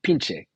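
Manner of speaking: pinche as PEEN-cheh; Spanish pronunciation. Shown as a demonstration. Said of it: "Pinch is pronounced pinche".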